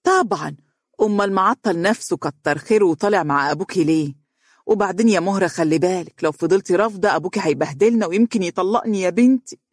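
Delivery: insistent mother pleading with her daughter; emphatic. Acted. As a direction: press the point, guilt-tripping at the end. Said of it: "وقالت مؤكدة". (بتأكيد وإلحاح)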